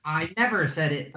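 accidentally mysterious script reading; a touch of mystery in a put-on voice. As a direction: let the acted line turn mysterious. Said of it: "that went really mysterious".

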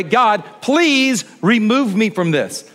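a slow, hushed plea to God; earnest slow prayer. Pretend. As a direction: pray it out slowly and humbly. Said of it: "if I could say it a different way".

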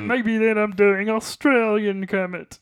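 plummy upper-class frog puppet voice; a frog puppet speaking like English gentry; posh Kermit voice. Pretend. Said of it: "are you doing a Kermit voice".

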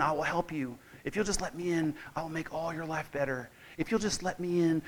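soft, pleading little voice at the door; meek pleading Jesus. Retold or imitated. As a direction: beg meekly to be let in, hushed. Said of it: "Jesus helplessly standing outside the door, knocking".

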